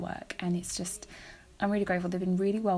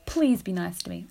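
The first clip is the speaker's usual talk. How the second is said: playful plea; 3 dB louder than usual. Real, not acted. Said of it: "I'm just kidding".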